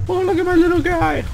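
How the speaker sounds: squeaky high coo over a tiny character; high-pitched doting voice; cutesy baby talk. Acted. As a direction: coo at him like a proud parent. Cooing over his game character.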